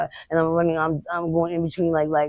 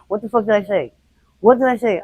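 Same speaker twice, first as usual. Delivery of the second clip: higher, rising in force on the repeat; retold angry demand; 4 semitones higher, 4 dB louder than usual. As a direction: act out a threatening reprimand. Retells attacker's angry demand.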